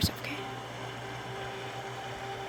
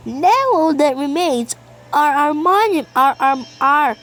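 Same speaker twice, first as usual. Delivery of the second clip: higher, grand, hammed-up royal voice; princess queen voice; 4 semitones higher than usual. Player voicing the game princess, grand and hammed-up. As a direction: play a lofty princess queen, badly on purpose. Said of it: "the worst freaking princess queen voice".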